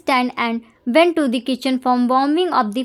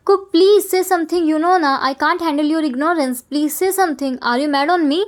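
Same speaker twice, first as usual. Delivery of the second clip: higher, pleading and anxious; 3 semitones higher than usual. Acted. Tea begging silent Cook to answer, anxious pleading. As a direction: coax him to speak, worried.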